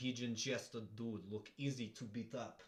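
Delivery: over-the-top, exaggerated put-on Russian accent. Describing someone's chest, then repeating it in a Russian accent. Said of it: "saying that in a Russian accent would be really".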